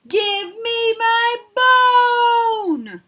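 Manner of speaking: very slow, high, loud ghostly shout. Acted. Angry ghost yelling for its bone, high and slow. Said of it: "called out again a teeny tiny bit louder".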